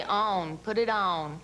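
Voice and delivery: ON said the Southern way, drawn toward "own"; Southern-accented ON, as an example; Southern pronunciation. Shown as a demonstration. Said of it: "We'd say".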